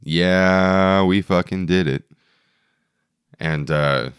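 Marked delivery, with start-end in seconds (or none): none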